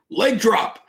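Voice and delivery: high-pitched mock yell from the wrestling ring; imitated yell. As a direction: call out the move as Andre would. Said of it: "he yells out".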